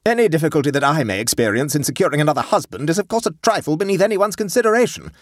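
high, cuttingly bitter sarcasm. A narrator's reading. Wife whose husband ranks below omelettes, bitter. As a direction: say it with wounded sarcasm. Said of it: "said Catherine bitterly".

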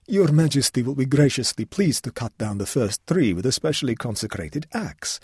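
bow and scrape through every word; obsequious official. Acted. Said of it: "said the obsequious official".

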